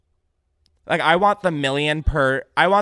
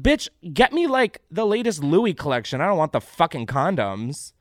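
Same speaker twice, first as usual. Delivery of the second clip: diva demand; 3 semitones higher, 4 dB louder than usual. Pretend. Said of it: "I'd be like".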